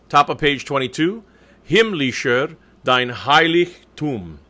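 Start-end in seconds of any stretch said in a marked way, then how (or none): 1.7-4.4 "Himmlischer, dein Heiligtum" in careful, slow German; slow diction model. Shown as a demonstration. Coach reading the text for the choir, slow careful diction. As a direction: separate each German word deliberately. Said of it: "I'll be doing some reading of the text".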